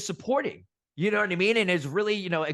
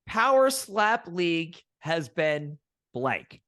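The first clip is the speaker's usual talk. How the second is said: slow quiz prompt; much slower than usual. Acted. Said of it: "One word answers".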